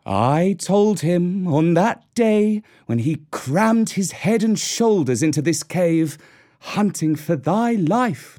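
slow, proud mother wolf; she-wolf voice. Acted. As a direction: savour every word, lightly voiced. Mother Wolf gloating over skin.

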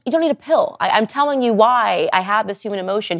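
mildly exasperated insistence; insistent pushback. Acted. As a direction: push back as if setting a doctor straight. Acts out talking back to doctors.

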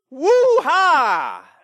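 loud, high hammed-up woo-ha; mock victory whoop. Preacher parodying a boastful believer, hammed-up whoop. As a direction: whoop like a self-made champion.

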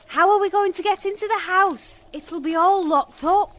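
spoken up so Smirt can hear. Acted.

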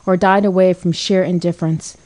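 usual speaking voice

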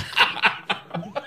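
unvoiced airy laugh; breathy laugh. Real, not acted. Laughing at the chopsticks bacon joke, airy laugh. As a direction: let a soft laugh out.

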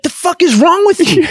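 high-pitched incredulous demand; appalled friend. Acted. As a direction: confront a friend in mock disbelief. Acted reaction of an appalled friend.

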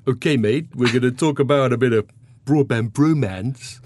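light mock cheesy radio DJ accent, brief; a quick half-hearted go at a naff old radio DJ accent; Smashy and Nicey DJ accent. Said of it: "I'm gonna try and do a bit of an accent".

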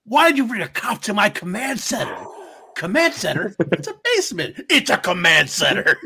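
high, loud indignant nerd outburst; indignant movie quote. Retold or imitated. Quoting Warlock yelling at a cop about his basement. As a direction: squeal it out, outraged at the intrusion.

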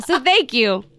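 loud botched Aussie thanks; bad Australian accent. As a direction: try Australian and half land in British. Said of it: "do an Australian accent".

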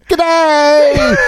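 mock Australian greeting. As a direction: belt out a hammed-up Aussie G'day. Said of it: "He's like".

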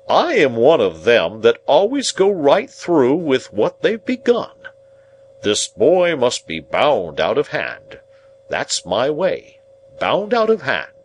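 high, loud, declamatory self-praise; pompous Pumblechook. Acted. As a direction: proclaim your principles grandly. Narrator voices Pumblechook declaiming.

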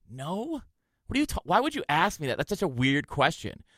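retold defensive protest; indignant denial. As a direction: act caught out and deny it. Acting out his denial to friend.

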